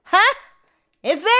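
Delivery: mock sweet customer service. Call center worker needling a caller, fake sweet. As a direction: sweetly needle her with the wrong name. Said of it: "just to be a bitch".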